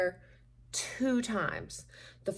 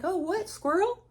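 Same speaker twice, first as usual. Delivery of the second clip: mock distracted squirrel; 10 semitones higher than usual.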